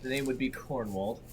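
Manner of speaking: bad Irish accent. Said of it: "That was out of character".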